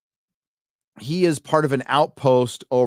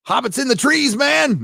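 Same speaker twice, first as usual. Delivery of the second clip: much higher squeaky mock cry; mock hunter; 4 dB louder than usual. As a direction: parody a dim hunter spotting them. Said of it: "and they got, you know".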